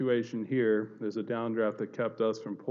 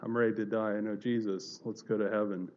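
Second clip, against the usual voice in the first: calm reassurance; 3 semitones lower than usual. Retold or imitated. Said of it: "I had this peace".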